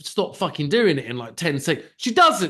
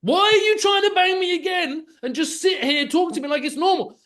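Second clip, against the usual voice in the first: much higher and louder, half-mock outrage; incredulous raised voice at the girlfriend; exasperated outburst; 10 semitones higher, 4 dB louder than usual. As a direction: shout it at her in disbelief. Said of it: "And I'm like".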